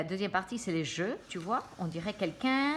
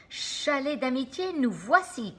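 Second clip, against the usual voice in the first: Sammy shouting; 6 semitones higher, 4 dB louder than usual. A narrator's reading. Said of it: "crie Sammy".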